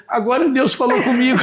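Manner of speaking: high-pitched mock tearful wife; imitated tearful voice. Wife telling husband God spoke, imitated tearfulness. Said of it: "a esposa tava cheia de lágrima".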